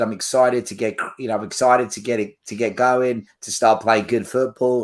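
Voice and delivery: hesitant attempt at Postecoglou's accent, a little low; lightly put-on, badly imitated accent; crap imitation accent. Fan quoting the new manager's club video, crap imitation accent. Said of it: "Sorry for the crap accent".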